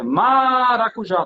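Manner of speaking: maracujá called out slowly, syllables drawn out; shouted test word. Shown as a demonstration. Teacher testing the word by shouting it, drawn out. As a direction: call out maracujá to find the stressed syllable. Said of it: "Porque eu tenho que testar no grito".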